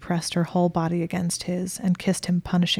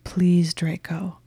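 a whispered, whimpering plea; much slower than usual. Acted. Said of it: "She was whimpering".

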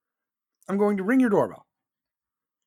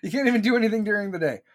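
laughing as he repeats it, a bit faster; faster than usual. Real, not acted. Ranting to viewers, laughing at his own line.

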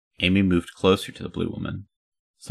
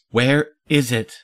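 slow, high, louder demand; exasperated demand; 7 semitones higher, 5 dB louder than usual. Acted. Hildy stomps her foot in the empty vault, exasperated. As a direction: stretch each word in frustration.

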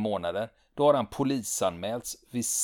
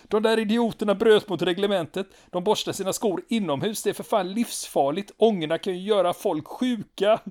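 high, loud, raging complaint; furious shout; 9 semitones higher, 5 dB louder than usual. Retold or imitated. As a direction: yell at the lieutenant in a fury. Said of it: "skriker han till en förvånad Kjellberg".

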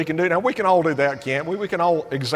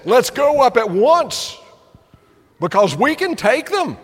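higher and louder, a slow confident call; bold rallying cry; 7 semitones higher, 4 dB louder than usual. Retold or imitated. Joshua and Caleb rallying Israel against the giants, bold and loud. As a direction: urge the people to go up and take the land. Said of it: "Joshua and Caleb said".

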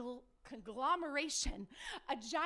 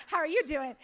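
louder greeting through laughter; laughing quote; 7 dB louder than usual. Retold or imitated. Quoting the gym manager's greeting, laughing through it. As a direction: say it while still laughing.

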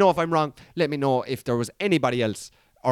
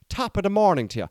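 higher, mock stage-Irish leprechaun accent; 4 semitones higher than usual. Irish person greeting the street, in a mock leprechaun Irish accent. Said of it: "talking like a leprechaun".

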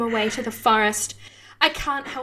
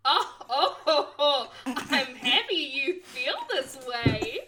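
giggling; 4 dB quieter, slower than usual. Real, not acted. Character giggling.

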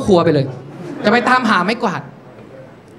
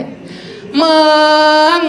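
higher, drawn-out wheedling call; coaxing invitation; 5 semitones higher, 3 dB louder, much slower than usual. Acted. Woman inviting friend out to a pub, coaxing. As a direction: stretch the word to invite a friend out. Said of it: "อันนี้คือจะชวนไปไหนสักที่".

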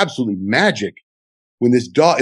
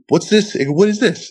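high-pitched, baffled questioning; mock-baffled, pitched well up; incredulous; 10 semitones higher than usual. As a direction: retell your disbelief at a surprise windfall. Stunned at a surprise check.

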